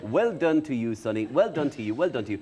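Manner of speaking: lightly voiced, patronising old host praising a child; a hint of a preachy broadcaster; Gay Byrne. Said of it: "do you still do gay?".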